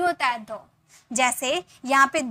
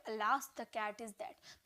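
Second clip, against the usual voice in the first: slow teaching demo; 4 semitones lower, 15 dB quieter, much slower than usual. Shown as a demonstration. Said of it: "उसे English में बोल सकते हैं".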